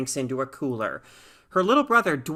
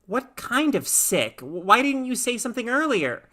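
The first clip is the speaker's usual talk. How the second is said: a touch of a worried mother; 8 semitones higher than usual. Acted. Worried mother questions Lisa.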